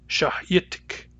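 "Shah yitik" with a rising question tune, whispered. Shown as a demonstration. Teacher demonstrating the question mood, rising tune. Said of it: "the second clause uses the question mood".

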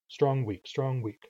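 strong leaned on, weak let fall; strong-weak alternation. Shown as a demonstration. Teacher showing English rhythm, alternating strong and weak. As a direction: beat out strong, weak in even pairs. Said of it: "it goes stressed".

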